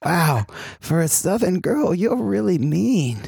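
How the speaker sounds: lightly voiced Queens guy; Queens accent. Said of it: "that is an accent".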